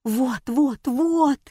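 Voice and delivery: a hammed-up narrated shout, climbing; Fatima yelling "вот" with mounting pitch. A narrator's reading. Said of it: "заорала Фатима".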